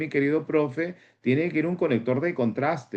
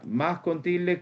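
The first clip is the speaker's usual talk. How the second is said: "más con tilde" lifted higher, "tilde" pushed; más con tilde stressed; 5 semitones higher, slower than usual. Shown as a demonstration. Teacher drilling the accent mark, stressing "más con tilde". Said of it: "acuérdate eso".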